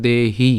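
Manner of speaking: "দেহি" said with a long final ee; "দেহি" as a careful model, ending lengthened; pronunciation demo. Shown as a demonstration. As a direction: draw out both syllables of "দেহি". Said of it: "উচ্চারণ কেমন হবে".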